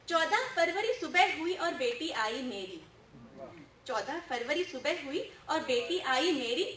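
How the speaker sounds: rhythmic stage recitation; humorous poem recital. Acted. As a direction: tell the comic verse line by line to the audience. (हास्य कविता-पाठ)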